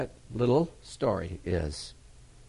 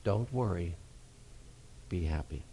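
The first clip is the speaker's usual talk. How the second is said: don't worry be happy; 6 semitones lower, 9 dB quieter than usual. Acted. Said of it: "soft closing catchphrase".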